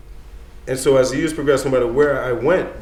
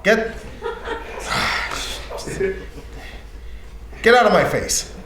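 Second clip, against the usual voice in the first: put-on higher, louder angry yell at a kid; furious yell; 6 semitones higher, 3 dB louder than usual. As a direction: blow up at him like a furious coach. Rob cussing him out.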